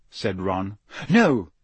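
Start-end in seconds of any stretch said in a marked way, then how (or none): 1.1-1.5 a short, sharp no; curt. Acted. Hermione curtly dismisses Ron. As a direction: cut him off. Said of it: "said Hermione curtly".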